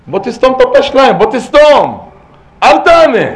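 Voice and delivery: high, loud shouted commands; urgent exhortation. Real, not acted. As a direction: cry out to the listeners, voice pitched right up. Urgent exhortation to shut mouths. (קריאה נרגשת בקול רם)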